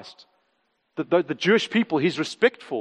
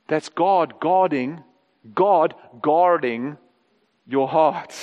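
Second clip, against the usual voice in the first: slow reverent emphasis; 5 semitones lower, much slower than usual. Acted. Preacher's slow emphatic close.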